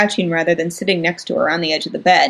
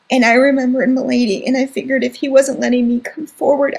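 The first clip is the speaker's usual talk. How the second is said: crying hard; 5 semitones higher than usual. Acted. Scared little brother recounting the ordeal, crying hard. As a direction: sob it out to your sister. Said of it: "He was crying so hard".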